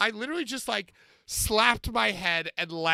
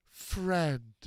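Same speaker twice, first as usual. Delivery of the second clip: Frankenstein's monster; 4 semitones lower, 5 dB quieter than usual. Retold or imitated. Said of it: "And Frankenstein's monster goes".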